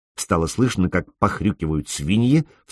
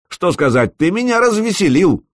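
much higher sneering mockery; nasty mocking laugh; 13 semitones higher than usual. A narrator's reading. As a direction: laugh at him as nastily as you can. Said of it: "постарался смеяться как можно противнее".

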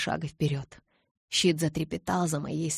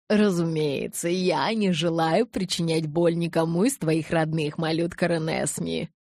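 soothing; 4 dB louder than usual. Acted. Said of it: "задушевному успокаивающему тону".

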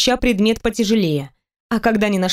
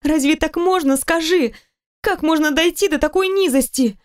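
tearful; 6 semitones higher than usual. Acted. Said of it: "прекрати рыдать".

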